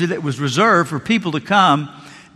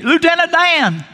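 joyful Forrest Gump shout, much higher; Forrest Gump calling out; 13 semitones higher than usual. Retold or imitated. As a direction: call out like Forrest spotting his friend on the dock. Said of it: "scene from the Forrest Gump movie".

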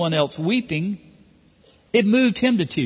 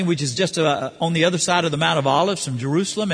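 usual speaking voice

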